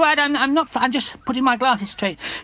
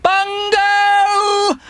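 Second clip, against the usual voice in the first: loud, higher call across the common; 10 semitones higher, 6 dB louder than usual. Acted. Wellington searching for his friend Bungo, calling out loud. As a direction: shout his name to find him.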